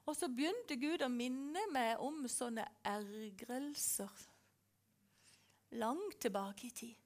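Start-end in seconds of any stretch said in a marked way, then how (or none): none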